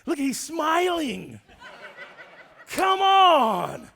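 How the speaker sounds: high, drawn-out indignant shout; hammed-up protest at a rival; mock outrage. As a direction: cry out in exasperated disbelief.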